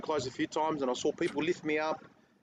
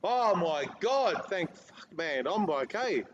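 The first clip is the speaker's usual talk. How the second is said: drawn-out, higher-pitched sigh of relief; retold relief; 3 semitones higher, slower than usual. Husband retelling the moment his wife heard him, relieved. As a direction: replay the relief, stretching the words out.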